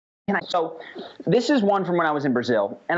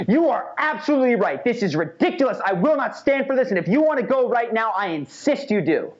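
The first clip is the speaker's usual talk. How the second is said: higher, forceful, fired-up agreement; aggressive agreement; 8 semitones higher than usual. Retold or imitated. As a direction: agree with him like you're going to war. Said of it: "an aggressive tone of voice".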